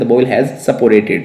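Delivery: slow, deliberate English for learners; measured dictation pace with small pauses; slow model sentence. Shown as a demonstration. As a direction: spell it out word by word, teacher-style. Teacher repeats the model sentence.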